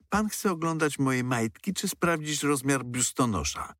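a hammed-up yell at the policeman; mild mock shriek. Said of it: "wrzasnęła Ela". (Ela z oburzeniem krzyczy na milicjanta, lekko zagrane)

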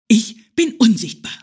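a nervous little squirrel insisting. Acted. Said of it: "flüsterte das erschrocken".

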